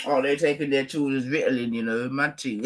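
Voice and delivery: laughing through the joke. Real, not acted. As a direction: giggle through the question.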